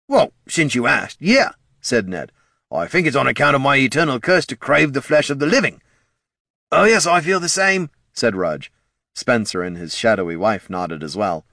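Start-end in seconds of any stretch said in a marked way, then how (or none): 0.1-1.5 raised, eager undead voice; a ghoul answering timidly; zombie voice. A narrator's reading. 2.7-5.8 raised, eager undead voice; a hungry ghoul explaining; zombie voice. A narrator's reading. 6.7-7.9 high, eager undead agreeing. A narrator's reading. Rudge voiced.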